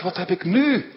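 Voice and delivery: high, loud cry of disbelief; bewildered outcry. Acted. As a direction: throw it out in shock. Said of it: "roept hij verbijsterd uit".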